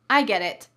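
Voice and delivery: I get it said with firm emphasis; emphatic tone. Shown as a demonstration. Teacher models the tone of voice, emphatic. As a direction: stress "I get it" with conviction. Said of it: "has to be said in this tone of voice".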